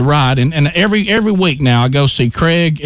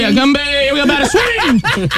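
high, drawn-out little-leaguer chant; stretched, high kid voice; kid's infield chatter; 10 semitones higher than usual. Retold or imitated. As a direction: mimic a child heckling the batter. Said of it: "he starts chattering like nothing happened".

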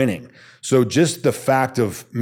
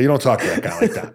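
laughing; faster than usual. Real, not acted. Repeats rule with laugh.

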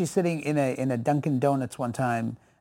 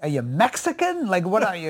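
higher-pitched puzzled guessing; baffled stranger; 3 semitones higher than usual. Retold or imitated. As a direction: imitate a stumped stranger guessing. Stranger guessing at his race.

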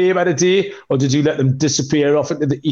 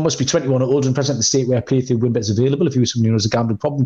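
fast legal disclaimer; 2 semitones lower, faster than usual. Acted. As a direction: rush through the small print.

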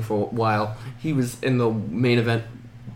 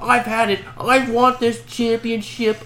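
high-pitched, hammed-up wrestler rant; mock fed-up outburst; 11 semitones higher, 3 dB louder, slower than usual. Imitating the Miz demanding the championship, mock fed-up outburst. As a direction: push it up high, building louder as you demand.

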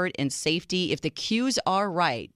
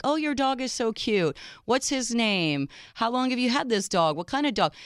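gushing dog lover; 6 semitones higher than usual. Retold or imitated.

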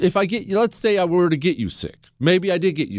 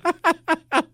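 high-pitched real giggling burst; amused laugh; 13 semitones higher than usual. Real, not acted. Husband recalling his wife laughing too, high amused laugh. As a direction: break up laughing at the memory.

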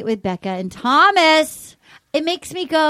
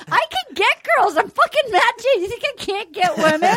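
Matt James; 6 semitones higher than usual. Retold or imitated. Indignant boast as Matt James.

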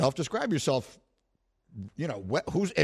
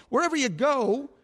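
hyped-up boast; 8 semitones higher than usual. Real, not acted. Hyping himself up.

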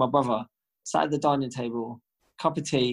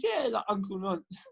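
mocking taunt; 6 semitones higher, 5 dB quieter, slower than usual. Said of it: "I goes".

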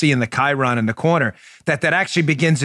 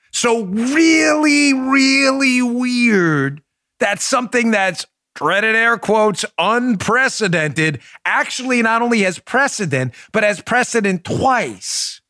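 mock outrage; 4 semitones higher, slower than usual. Mock outrage imitating Chuck Todd.

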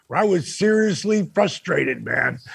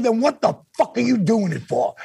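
higher, mock angry Dusty voice; 6 semitones higher than usual. Dusty scolding Dennis over the phone, mock angry and higher. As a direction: hit him with the question in Dusty's voice. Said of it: "he was pissed".

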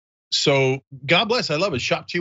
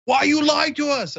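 high, indignant mock whine; 模仿输家生气; mock angry player; 11 semitones higher than usual. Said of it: "he was so mad, and he's like".

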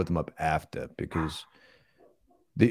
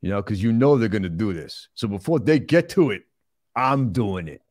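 deliberate movie tough guy explaining himself; plodding, self-satisfied star impression; Sylvester Stallone.

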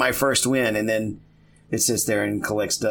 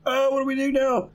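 panicked voice. Retold or imitated. Mock panic of setup shops.

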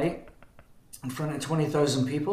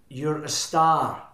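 slow drawn-out announcement; much slower than usual. Retold or imitated. Record label man on the phone, slow reveal. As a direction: stretch it out slowly, like a big reveal. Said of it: "And the voice said".

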